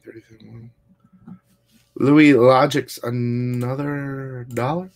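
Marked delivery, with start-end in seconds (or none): 1.9-3.0 slow, loud hype call of the name; calling out a repeat donor, loud and stretched; drawn-out shout-out. Real, not acted. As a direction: belt the name out slowly. Another donation from same supporter.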